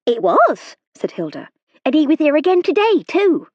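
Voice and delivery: a frightened country maid pleading her case; nervous serving girl. A narrator's reading. Hilda voice held.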